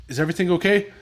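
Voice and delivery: high, loud mock concern; fake innocent. Dad playing dumb with his son on the phone. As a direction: feign worry. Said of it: "I was like".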